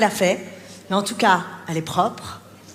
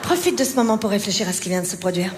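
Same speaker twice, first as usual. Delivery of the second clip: mock calm mother; 3 semitones lower than usual. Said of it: "la maman Calme".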